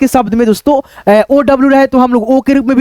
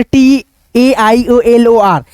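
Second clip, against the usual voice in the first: slow spelling; much slower than usual. Shown as a demonstration. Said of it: "टेलर पढ़ेंगे".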